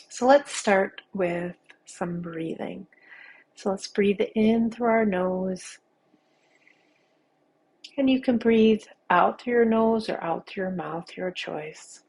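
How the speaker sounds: unhurried meditation guide with long pauses; guided meditation. Acted. Teacher guiding listeners through a body scan, calm guided-meditation voice. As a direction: lead them gently through each sensation, leaving space.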